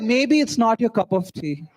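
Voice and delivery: slow, drawn-out mock of dad; mocking the father's tone. Son mocking how his father said it, slow. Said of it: "Who talks like that?".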